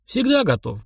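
high, chipper reply; cheerful readiness. A narrator's reading. Edik answering whether he is ready, cheerfully. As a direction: answer promptly with a lifted, lively pitch. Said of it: "бодро ответил Эдик".

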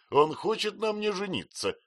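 high, embarrassed housemaid voice; flustered housemaid. A narrator's reading. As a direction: blurt it out, half laughing. Peggotty flustered confession.

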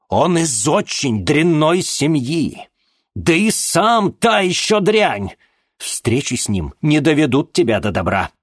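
high, loud, slow scornful shout; contemptuous father. Acted. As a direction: drag out every insult. Father insults the boy.

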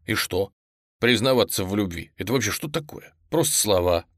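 usual speaking voice

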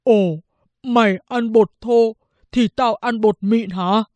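mildly gruff comeback; sharp retort. A narrator's reading. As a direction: throw it back at the son, slightly cross. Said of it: "hai bố con đối đáp chan chát". (ông bố vặn lại, hơi gắt)

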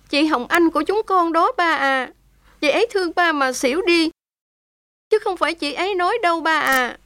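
clinging to him, holding back sobs; a touch of tearful. Acted. Daughter-in-law embracing her father-in-law, mildly tearful. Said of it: "ôm lấy cổ ông Hà và khóc nức nở".

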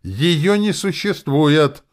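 very high, loud, drawn-out shriek; demonic screech. A narrator's reading. Demon denies the underworld to the hero, screeching. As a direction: screech it out like an ugly-voiced demon. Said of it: "взвизгнула Настя демонически неблагозвучно".

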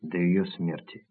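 slow, softened voice, only hinting at a whisper; understated whisper. A narrator's reading. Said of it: "прошептал он". (негромко и медленно, с намёком на шёпот)

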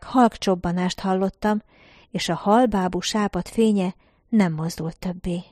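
usual speaking voice

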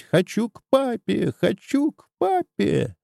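put-on high child's voice calling for papa; a small boy wailing for his father; child crying out. A narrator's reading. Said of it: "и кричать". (высокий детский голос, зовёт папу)

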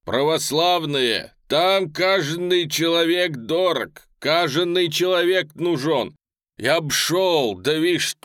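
loud, high, drawn-out plea; rally the crowd to fight; exclaimed appeal. A narrator's reading. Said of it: "воскликнул он, оглядывая собравшихся".

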